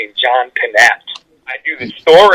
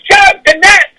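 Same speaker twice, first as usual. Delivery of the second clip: high, shouted name with a crack of laughter; proud shouted name; much slower than usual. Retold or imitated. Comedian telling the fan's dad who's calling, high shout. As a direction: announce yourself like a big reveal. Comic announces himself loudly.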